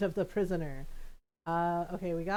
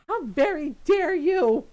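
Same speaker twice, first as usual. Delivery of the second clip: high, loud, slow outraged cry; mock indignation; 8 semitones higher, 10 dB louder, slower than usual. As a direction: play it hammed-up offended. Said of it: "Golden's like".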